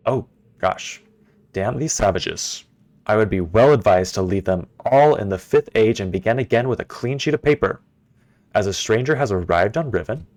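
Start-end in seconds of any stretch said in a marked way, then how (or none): 1.5-10.3 lightly voiced haughty father reading his journal; a hint of a scornful old ruler, unhurried; journal-reading villain. Reads Gehn's journal aloud.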